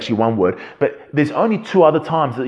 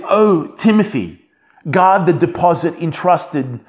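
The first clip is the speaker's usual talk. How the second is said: raised, emphatic appeal with measured pauses; higher-pitched, earnest charge to a disciple; emphatic, impassioned; 4 semitones higher, 3 dB louder than usual. Retold or imitated. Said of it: "there's an emphatic emotion and passion".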